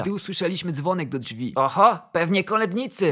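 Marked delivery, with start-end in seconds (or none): 1.6-3.1 lightly voiced father huffing as he gets up; panting father. Father hearing the doorbell, lightly puffed exclamation. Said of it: "wysapał ojciec".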